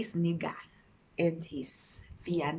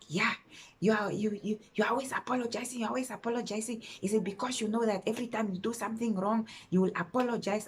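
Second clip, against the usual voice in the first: fast, raised-pitch mimic of a scolding boyfriend; mocking the boyfriend; 3 semitones higher, faster than usual. Mimicking her boyfriend scolding her, fast and higher. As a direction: rattle it off like the nagging boyfriend. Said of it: "the tone and manner in which he was saying that".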